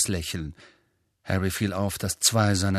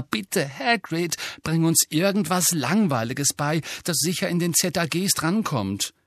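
desperate Hermione; 6 semitones higher than usual. Acted. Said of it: "echte Verzweiflung lag in ihrer Stimme".

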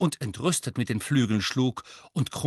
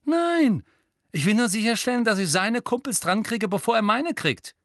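heated; 10 semitones higher, 4 dB louder than usual. A narrator's reading. Heated exchange with Hermine.

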